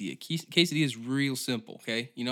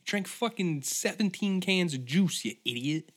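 scolding, pitched up high; sarcastic higher-pitched telling-off; mocking scold; 5 semitones higher than usual. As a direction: talk down to a fool. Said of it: "It's like".

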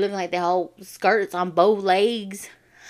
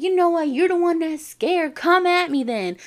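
high, louder mock challenge; pitched-up, punchy comeback in a retold quarrel; retold defiant challenge; 8 semitones higher, 4 dB louder than usual. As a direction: act out daring a bully to fight. Acted quarrel, challenges back.

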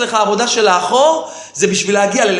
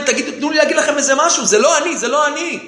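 quick, higher imitation of pleading; retold hurried plea; 4 semitones higher, faster than usual. Accused man begging to explain himself, hurried retold plea. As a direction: rush out a protest of innocence.

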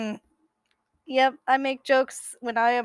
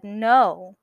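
screamed no; 6 dB louder than usual. Acted. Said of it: "I screamed".

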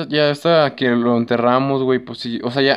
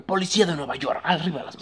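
mock cop; 3 semitones higher, 6 dB quieter than usual. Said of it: "tu mamá sí podría ser policía".

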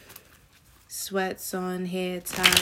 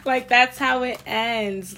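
louder, slow, still giggling; laughing through words; 4 semitones higher, 8 dB louder, slower than usual. Real, not acted. Reader to viewers, still laughing loudly. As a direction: talk while the laugh is fading out.

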